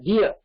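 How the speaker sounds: "டியர்" as dee-ya; correct English dear. Shown as a demonstration. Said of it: "டீர் கிடையாது".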